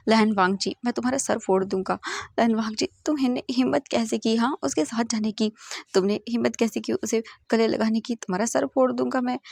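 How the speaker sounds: ordinary delivery, nothing marked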